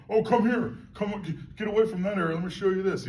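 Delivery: sing-song call to a dog; laughing as he lures the dog away from the area; coaxing a dog. Pretend.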